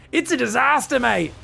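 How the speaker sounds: loud, high mock Australian accent. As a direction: redo it as a hammed-up Australian. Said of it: "I should have made that more Australian".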